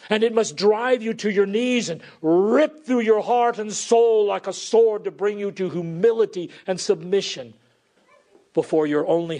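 forceful preaching. Real, not acted. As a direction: drive the warning home from the pulpit.

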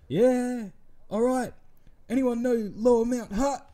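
imitating a hopeful host; mock crowd-work host.

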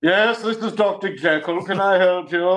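lightly put-on phone voice for a made-up doctor; Doctor Jekyll. Prankster posing as another man to the caller, lightly put-on voice. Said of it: "that would be Doctor Jekyll".

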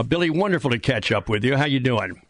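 normal talking voice

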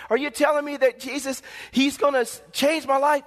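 mildly hammed-up eagerness; excited new believer. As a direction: play a convert amazed at good news. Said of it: "they get excited".

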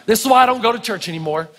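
low mock grumble of a visitor; skeptical newcomer. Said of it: "right now you're saying".

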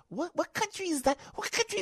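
high-pitched, incredulous viewer; mock disbelief. News watcher reacting to the coverage, mock disbelief. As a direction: squeal the question in mock bafflement.

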